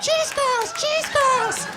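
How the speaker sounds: very high manic chant; crazed Jack Nicholson shriek; imitating Nicholson in The Departed; Nicholson impression. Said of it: "when Nicholson had".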